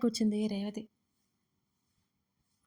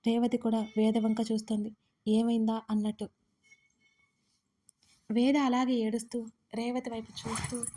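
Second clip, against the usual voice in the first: ordinary delivery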